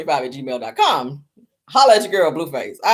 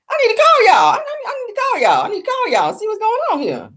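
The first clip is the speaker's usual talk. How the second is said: excited shout; 14 semitones higher than usual. Real, not acted. Excited about calling OnlyFans.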